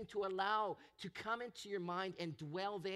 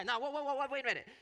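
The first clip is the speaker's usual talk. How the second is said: louder and higher, laughing as he reins himself in; laughing self-check; 6 semitones higher, 7 dB louder, much faster than usual. Real, not acted. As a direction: pull yourself back with a laugh.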